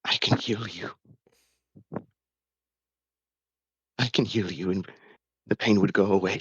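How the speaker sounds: a touch of tears, begging him to stay; pleading through tears. Acted. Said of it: "he starts to cry".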